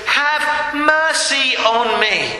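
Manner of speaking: drawn-out plea for mercy; slow, imploring call. Retold or imitated. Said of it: "when he calls out".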